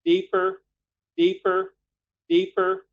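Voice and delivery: very high-pitched, spaced-out urging; high voice on a full breath. Shown as a demonstration. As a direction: count the inhale upward in a high voice. Coaching a deep in-breath with shoulders raised.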